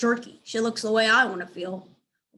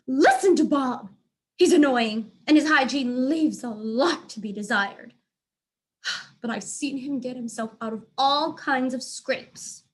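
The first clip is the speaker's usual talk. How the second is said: louder, higher cat pleading; cat character voice; 4 semitones higher, 5 dB louder than usual. Acted. A cat urging the frightened animals to listen to Bob. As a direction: urge the group to listen.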